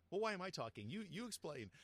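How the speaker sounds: high, loud flustered voice; mock-flustered woman passing the buck; flustered heroine. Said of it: "And she goes".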